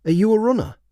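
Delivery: put-on high, eager boy's question; hopeful kid asking. A narrator's reading. Boy asks Theo if he is a runner, high and eager.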